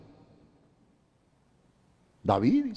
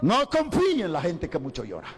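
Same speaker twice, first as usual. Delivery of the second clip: laughing; 6 semitones higher than usual. Real, not acted. Speaking through laughter.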